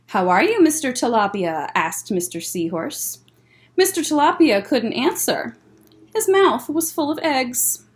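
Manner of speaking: gentle storytime read-aloud; picture book voice for kids; reading to children. Acted.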